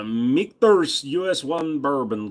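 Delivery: slow, stretched-out product name; odd drawn-out delivery. Real, not acted. Reading out his drink to viewers, oddly drawn out. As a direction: stretch every word out slowly. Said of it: "I don't know why I said it like that".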